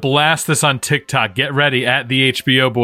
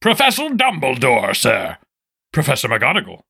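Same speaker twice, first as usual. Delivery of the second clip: Hagrid voice; 2 semitones higher than usual. Acted. Plays Hagrid, gruff giant.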